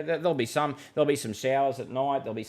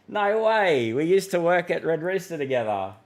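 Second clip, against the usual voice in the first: high, loud burst of delighted recognition; excited surprise; 6 semitones higher, 6 dB louder than usual. Real, not acted. Host recognising a former Red Rooster coworker in chat, excited.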